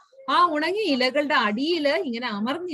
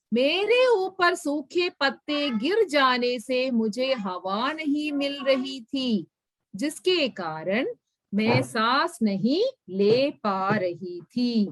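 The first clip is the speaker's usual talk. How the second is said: reads each Hindi word slowly for the class; slow, careful reading aloud; slow story reading; slower than usual. A narrator's reading. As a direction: spell the story out for learners. Reads the ant's Hindi line.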